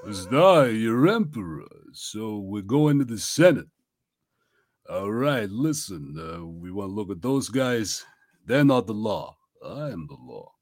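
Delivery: Sly Stallone. Retold or imitated. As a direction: do a lightly voiced Stallone. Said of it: "sounds exactly like Sly Stallone".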